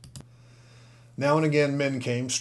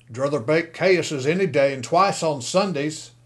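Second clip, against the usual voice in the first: gruff driver; 4 semitones higher, 7 dB louder than usual. Acted.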